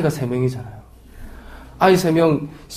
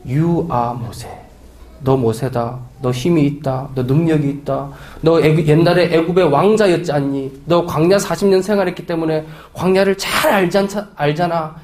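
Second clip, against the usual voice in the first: reassuring God. Acted. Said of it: "물어보면 하나님은".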